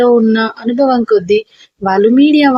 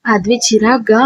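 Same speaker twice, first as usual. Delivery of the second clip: ordinary delivery, nothing marked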